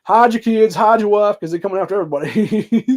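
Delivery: high, loud alarmed yelling; frantic warning shout. Retold or imitated. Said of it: "but he's like".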